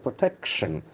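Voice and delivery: protection with the beat on "tec"; stress on second syllable. Shown as a demonstration. Teacher drilling the word for class, stress on "tec". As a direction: say protection, leaning on the middle syllable. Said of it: "The accent falls to the second syllable".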